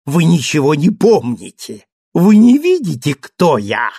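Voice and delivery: mock growl. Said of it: "зарычал Теннердье".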